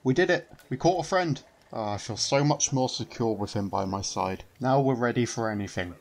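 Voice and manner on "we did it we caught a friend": higher, louder triumphant cheer; a gleeful shout of victory; excited cheer. Real, not acted. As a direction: celebrate the catch loudly. Triumph at catching NPC.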